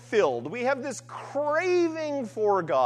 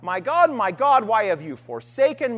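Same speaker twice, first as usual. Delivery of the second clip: a louder, mock anguished cry, not a full scream; retold cry to God; 5 dB louder than usual. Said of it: "Jesus is screaming out".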